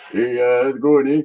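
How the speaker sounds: lowish laid-back Canadian cat voice; relaxed hoser pet greeting; Corbin. Pretend. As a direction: play the cat as an easygoing hoser. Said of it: "Corbin wants to say hi too".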